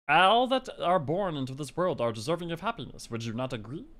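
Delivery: lightly voiced mystical corn; corn spirit voice. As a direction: play the corn as a solemn old spirit. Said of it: "what voice should I do for the corn".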